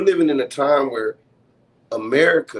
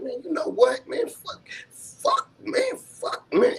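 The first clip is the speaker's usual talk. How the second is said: frustrated outburst; 13 semitones higher, slower than usual. Retold or imitated. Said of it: "to the point I was like".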